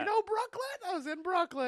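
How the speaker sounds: put-on high-pitched Jewish Brooklyn accent. Comic playing to a Jewish show, high Jewish accent. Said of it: "I did Jewish voice for".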